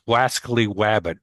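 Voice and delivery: "Wascally Wabbit" with W in place of both R sounds; says w for r. Shown as a demonstration. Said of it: "pronounce the R's like W's".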